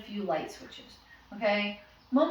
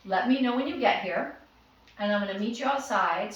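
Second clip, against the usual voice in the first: quick instruction. Shown as a demonstration.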